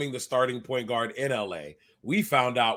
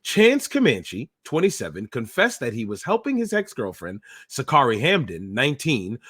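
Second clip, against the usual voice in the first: reporter voice. Acted. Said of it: "please put on your reporter voice".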